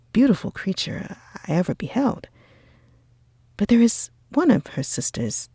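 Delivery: put-on enthusiastic young gentleman, coaxing; admiring Bingley, eager. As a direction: gush over her, then coax him. Bingley praising Jane, coaxing.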